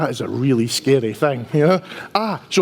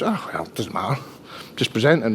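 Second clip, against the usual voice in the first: nonchalant; 4 semitones lower, 6 dB quieter than usual. Retold or imitated. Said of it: "As if it was".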